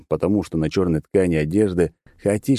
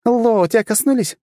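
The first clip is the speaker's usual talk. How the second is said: much higher, urgent questioning cry; thin childish shout; 4 dB louder than usual. Acted. The girl pressing him on whether he was touched, childish shout. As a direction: demand an answer in a kid's voice.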